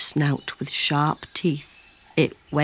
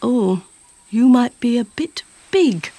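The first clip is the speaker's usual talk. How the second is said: high, loud fussy lady voice; a prim, fussy old lady; fussy lady, pitched up and loud; Missus Muddle Mud Puddle; 7 semitones higher, 4 dB louder than usual. A narrator's reading. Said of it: "she said".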